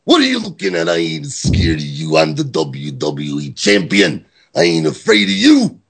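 mock Macho Man promo with big pitch swings; Randy Savage voice. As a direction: rant it like a hammed-up Randy Savage. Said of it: "I read it in the voice of Randy Savage".

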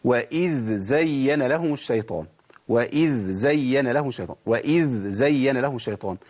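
وإذ زين slow and careful; slow recitation. Shown as a demonstration. Teacher gives the example verse. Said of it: "نجيب مثال".

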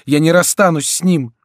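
distressed refusal. A narrator's reading. Diana refuses to leave Bussy, high protesting cry. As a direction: refuse passionately.

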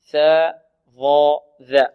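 "ثاء، ظاء، ذا" one by one, tongue tip against upper teeth; interdental letters. Shown as a demonstration. Teacher demonstrates the tongue position, interdental "ثاء، ظاء، ذا". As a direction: articulate each of "ثاء، ظاء، ذا" separately. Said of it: "هذه الحروف تخرج من طرف اللسان".

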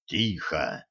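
low, soft hush; шёпотом. A narrator's reading. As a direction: hush her sharply but quietly. Koschei hushes, listening.

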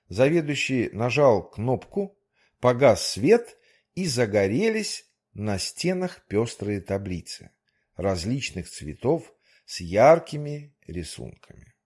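ordinary delivery, nothing marked

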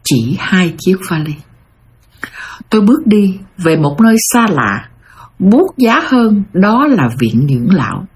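measured storytelling, phrase by phrase with pauses; heartfelt scripted narration. A narrator's reading. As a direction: deliver it as a reflective read-aloud message. (đọc truyện truyền cảm, ngắt nhịp)

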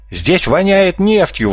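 high, slow disgusted cry; exclaiming. A narrator's reading. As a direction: yelp at the stink. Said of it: "воскликнул Кроль". (высокий изумлённый возглас)

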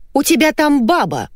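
high-pitched mock yell; shrieking accusation. A narrator's reading. Wife accusing husband of having a woman, shrieking. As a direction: cry out high, accusing, without much volume. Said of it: "завопила Валентина".

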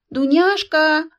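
shouting again. A narrator's reading. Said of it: "повторила старуха".

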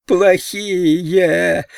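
high shrieked cry of a madman. A narrator's reading. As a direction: madman shrieking the word at the boys. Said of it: "визжал он".

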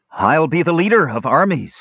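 grand boast. A narrator's reading. Tannen boasts of leading armies.

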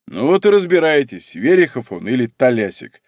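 plain reading voice

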